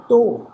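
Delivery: ਤੋ drawn out on its vowel; lengthened vowel. Shown as a demonstration. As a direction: hold the vowel in ਤੋ. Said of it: "ਔਂਕੜ ਦੀ ਮਾਤਰਾ ਨੂੰ ਲਮਕਾ ਕੇ".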